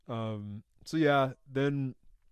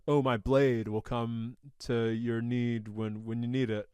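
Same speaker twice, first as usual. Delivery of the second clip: solemn prophecy; slower than usual. Retold or imitated. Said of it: "she says something to the effect of".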